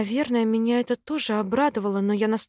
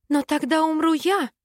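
higher, indignant protest; raised, indignant exclamation; indignant outburst; 7 semitones higher than usual. A narrator's reading. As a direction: cry out in outrage. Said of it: "возмутилась".

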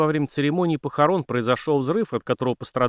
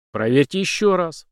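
demanding; 6 semitones higher, 4 dB louder than usual. Acted. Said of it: "потребовал полицмейстер".

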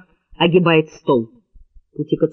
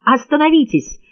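high, urgent stop command; man begging a woman to stop, shouting; shouted plea; 10 semitones higher than usual. A narrator's reading. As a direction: yell at her to stop. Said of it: "крикнул он".

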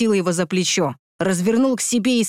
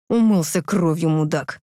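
contemptuous. Acted. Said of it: "с нотками презрения".

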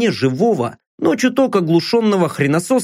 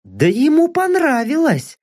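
mocking remark; 10 semitones higher than usual. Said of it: "заметила наёмница".

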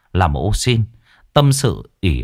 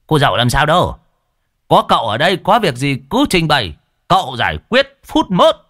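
put-on boastful old man; 6 semitones higher than usual.

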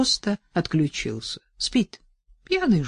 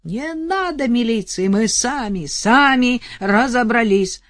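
high, loud pleading shout; 6 semitones higher, 6 dB louder, slower than usual. Acted. Вдова кричит соседке, громко. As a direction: yell it, pleading. Widow keeps yelling.

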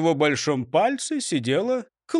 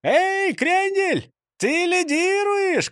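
shout; 12 semitones higher, much slower than usual. A narrator's reading. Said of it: "крикнул кто-то".

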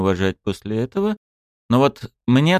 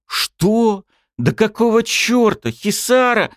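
startled; 3 dB louder, slower than usual. Acted. Dragon startled by girl.

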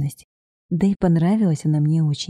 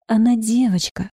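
a mild exclamation, a little higher; exclaiming; 4 semitones higher than usual. Acted. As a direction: exclaim it with conviction. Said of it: "воскликнула".

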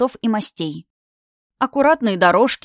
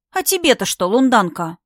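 scornful snort; 2 semitones higher than usual. Acted. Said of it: "фыркнула та в ответ".

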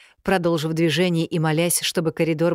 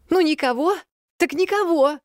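yelled back; 12 semitones higher than usual. A narrator's reading. Heroine yelling back at the unseen voice in the corridor. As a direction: shout it back at the stranger. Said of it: "проорала я в ответ".

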